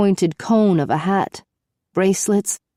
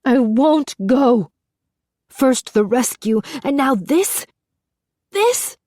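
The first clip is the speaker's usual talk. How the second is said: beside herself; 6 semitones higher than usual. A narrator's reading. Princess frantic at the captain, rising high in disbelief. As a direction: climb higher with every word in disbelief.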